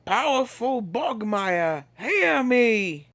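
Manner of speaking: solemn summons. A narrator's reading. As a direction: call the sealed spirit forth. Summons sealed creature.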